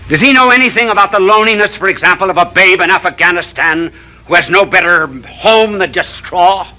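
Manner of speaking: rising, fervent preacher cadence; impassioned televangelist sermon; preaching. Acted. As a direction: build each question like a sermon. Preaching at full force.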